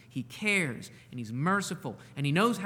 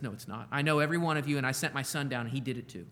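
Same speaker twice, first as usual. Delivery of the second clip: God's gentle correction; 4 semitones lower, faster than usual. Retold or imitated. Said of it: "And God says".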